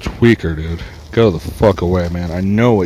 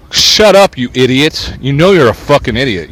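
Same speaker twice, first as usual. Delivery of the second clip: higher, louder snap at a stranger; angry outburst; 4 semitones higher, 3 dB louder than usual. Real, not acted. Cursing out a honking driver, angry. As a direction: tell off an idiot, loud.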